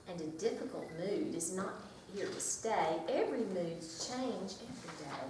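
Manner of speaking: lively picture-book read-aloud; reading to children. Acted. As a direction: read it to a circle of preschoolers.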